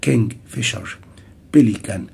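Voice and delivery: "كينج، فيشر" and "بيليكان" stressed on the first syllable. Shown as a demonstration. Teacher showing three-syllable words, first syllable stressed. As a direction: punch KING in "كينج، فيشر" and PEL in "بيليكان". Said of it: "ممكن يبقى المقطع في الأول".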